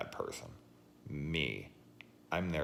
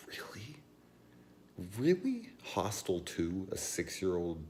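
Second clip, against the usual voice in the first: much higher, rising disbelief; incredulous; 6 semitones higher than usual. Real, not acted. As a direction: squeak out your outrage in disbelief. Incredulous at kids in horror.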